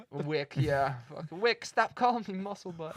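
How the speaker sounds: "Wick" with w for the r of Rick; says w for r. Retold or imitated. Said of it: "That was a nickname as a kid".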